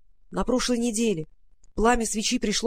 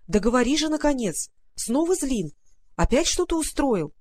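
impatient; 4 semitones higher than usual. Acted. Impatient demand for news.

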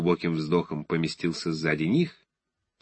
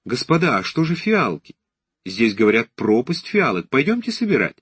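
put-on higher, eager girlish voice; lively young lady; 3 semitones higher, 3 dB louder than usual. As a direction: call the others like an eager girl.

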